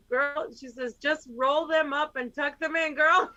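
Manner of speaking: lightly hammed-up girlfriend voice; imitating Shannon. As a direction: playfully mimic a friend's slow, lifted advice. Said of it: "Shannon's like".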